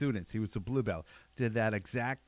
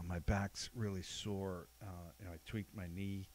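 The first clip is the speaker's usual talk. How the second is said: mock sore complaint; 2 semitones lower, 10 dB quieter than usual. Voicing sore training partner pleading easy.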